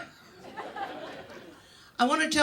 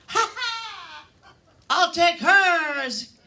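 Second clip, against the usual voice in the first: high, slow, drawn-out giddy drugged voice; high cackle; 8 semitones higher, 5 dB louder, much slower than usual. Retold or imitated. Drugged patient to surgeon, giddy high cackle. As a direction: cackle it like you're high on morphine.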